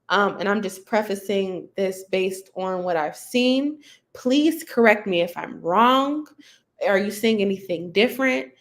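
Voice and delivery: even, level monotone voice. Shown as a demonstration. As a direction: keep it level and unemotional. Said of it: "a level tone, very monotone".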